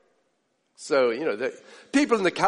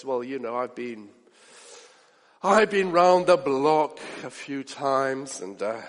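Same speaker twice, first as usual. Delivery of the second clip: world-weary neighbour; 7 semitones lower than usual. Retold or imitated. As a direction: play the unbothered old hand, low and unhurried. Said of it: "he says this".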